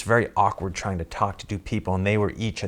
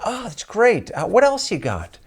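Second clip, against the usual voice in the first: high and louder mock producer; imitating the producer; 12 semitones higher, 7 dB louder than usual. Producer dismissing another character, high and loud. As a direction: push it out high and loud, unimpressed. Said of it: "and she goes".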